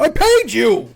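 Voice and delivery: a customer's final shout at the clerk before storming out; indignant shout. Retold or imitated. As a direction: slam the point home.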